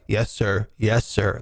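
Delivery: low, meek schoolboy replies; meek scolded crew. Retold or imitated. Crew answering the yelling boss, low and meek. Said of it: "Like being scolded like school children".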